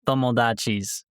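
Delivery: put-on American-accented Japanese farewell; drawn-out playful Japanese sign-off; japanese learner accent. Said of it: "No Japanese outro".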